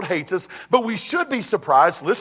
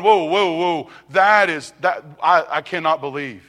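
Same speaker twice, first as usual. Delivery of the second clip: mock astonishment; 4 semitones lower, 4 dB louder than usual. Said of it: "a point of going".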